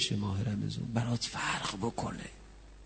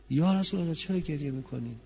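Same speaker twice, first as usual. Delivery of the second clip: grieving, heartfelt question; pained question; 5 semitones higher than usual. Shown as a demonstration. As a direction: ask it as someone who cannot bear his tears. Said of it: "یه پرسش نیست که".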